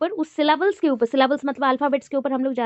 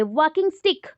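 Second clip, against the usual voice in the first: "वॉकिंग स्टिक" with both words weighted; double stress. Shown as a demonstration. Teacher showing compound stress, stressing both words of "वॉकिंग स्टिक". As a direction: hit वॉकिंग and स्टिक alike in "वॉकिंग स्टिक". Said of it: "दोनों को ही focus ज़्यादा मिला".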